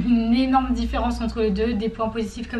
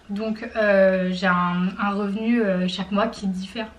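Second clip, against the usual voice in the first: chewing while talking; 3 semitones lower, slower than usual. Real, not acted. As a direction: mouth full, words half-blocked by food. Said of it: "J'ai craché".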